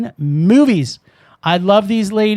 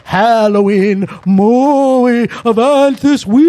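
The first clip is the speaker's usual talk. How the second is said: ghost voice. Pretend. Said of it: "you sounded like a ghost".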